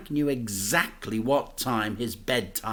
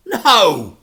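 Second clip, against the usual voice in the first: high, loud plea; pleading; 12 semitones higher, 12 dB louder than usual. A narrator's reading. Boy begs to come, high pleading. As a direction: beg for it. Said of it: "pleaded the boy".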